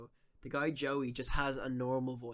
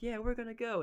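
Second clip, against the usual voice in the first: higher-pitched cartoon reply; another dub character; 10 semitones higher than usual. Acting out the next person in the dub, high character voice. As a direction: imitate an anime sidekick answering. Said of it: "And the next person like".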